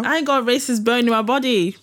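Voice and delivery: lightly acted indignant denial; mock defensive racist. Host parodies someone denying they are racist, mock defensive. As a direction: protest innocence with mock offence. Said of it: "being called racist".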